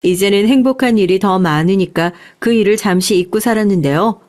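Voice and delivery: usual speaking voice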